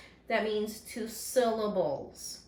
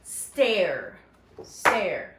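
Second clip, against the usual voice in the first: Stare said firm and louder, one beat; syllable clap, louder and lower; clapping syllables; 3 semitones lower, 4 dB louder than usual. Shown as a demonstration. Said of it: "Go ahead and clap it out".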